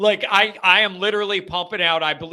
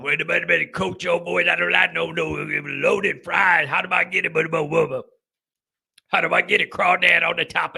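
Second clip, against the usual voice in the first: mock commenter; 4 semitones lower than usual. Host mocking a chatter who wants loaded fries, drawled and silly. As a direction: ham up a clueless southern fan.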